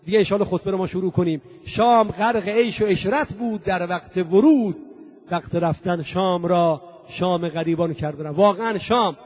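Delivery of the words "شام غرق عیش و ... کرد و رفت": measured couplet, falling on the second line; poetry recitation. Acted. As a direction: recite the verse with stretched line endings. Repeats the closing couplet.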